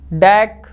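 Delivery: डैक said alone, held with full weight; stressed syllable. Shown as a demonstration. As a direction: take your time on डैक, stressing it. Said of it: "डैक में time लग रहा है". (डैक पर ज़ोर देकर, समय लेकर)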